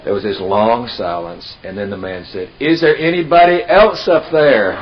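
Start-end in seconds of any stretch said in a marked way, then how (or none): 2.6-4.7 incredulous. Retold or imitated. Punchline, man asks for alternative.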